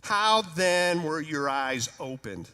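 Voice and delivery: slow, mocking sarcastic question; slow and sneering, full of doubt. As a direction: drag it out with scorn. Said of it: "I'm figuring sarcasm".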